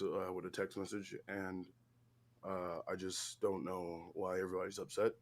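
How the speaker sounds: quiet, mumbling, listless mock of the host; mocking impression of Grim. Streamer mocks the boring host, quiet listless mumble. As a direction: mumble it half-asleep, mocking his dull delivery. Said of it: "this is basically what he did".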